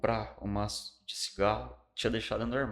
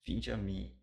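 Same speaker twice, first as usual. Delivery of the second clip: gentle scripture voice; 2 semitones lower, 6 dB quieter than usual. Retold or imitated. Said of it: "Ele falou assim".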